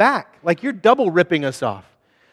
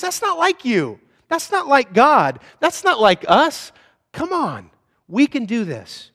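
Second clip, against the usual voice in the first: much higher, slowed pleading; impassioned appeal; 6 semitones higher, 3 dB louder, slower than usual. Acted. Nehemiah appealing to the people, high and impassioned. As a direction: lift the voice and plead.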